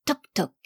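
two short spoken taps; knocking sound. A narrator's reading. Duchess knocks on the next barrel, imitated knocking. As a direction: imitate a hammer knocking twice. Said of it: "Elle cogne l'autre tonneau".

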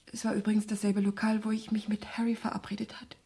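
unvoiced, fading whisper; whispered aside. Woman recalling her date with Harry, whispered. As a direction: barely breathe the memory. Revealing a painful memory.

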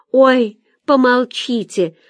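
exclaiming. A narrator's reading. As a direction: cry out to hush the others. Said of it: "воскликнула Ольга". (восклицая, нараспев)

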